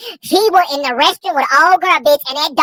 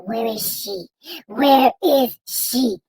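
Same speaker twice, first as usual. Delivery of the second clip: low, slow, mock-worried man; imitating the boyfriend; 3 semitones lower, 4 dB quieter, slower than usual. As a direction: drag it out like an anxious boyfriend. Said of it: "Is that how he talk".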